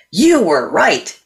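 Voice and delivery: slow, deliberate mock-solemn delivery; retold weighty admission. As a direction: draw each word out for effect. Retells his solemn admission.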